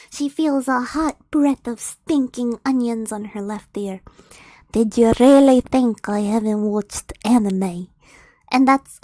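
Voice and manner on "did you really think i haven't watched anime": lower, louder ogre voice; menacing ogre. Acted. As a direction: loom over her and taunt. Ogre's menacing line read aloud.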